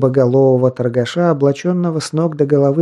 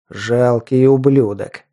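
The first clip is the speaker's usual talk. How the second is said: through gritted teeth; slower than usual. Acted. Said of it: "процедил сквозь зубы Скел".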